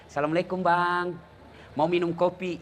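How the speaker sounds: lightly acted courteous waitress; polite coffee-stall woman. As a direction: greet a customer sweetly and politely. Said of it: "perempuan cantik yang sopan". (pelayan warung yang sopan, diperankan ringan)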